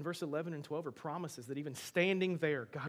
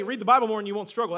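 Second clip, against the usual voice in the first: mock glib advice; 4 semitones higher, 11 dB louder, faster than usual. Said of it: "the last thing I want to do is go".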